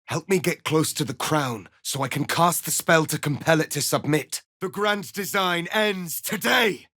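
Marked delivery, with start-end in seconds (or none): 4.6-6.9 higher, shouted battle cry; defiant battle shout. Acted. Warrior shouts defiance before the final battle. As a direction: hurl it at the enemy as a challenge.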